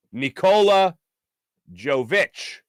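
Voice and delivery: "Jovic" with a heavy, drawn-out first sound; stank on the front. Shown as a demonstration. Host naming the six-foot-eleven forward, slowly and emphatically. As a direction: lean hard into the start of "Jovic", slowly. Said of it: "put the stank on the front".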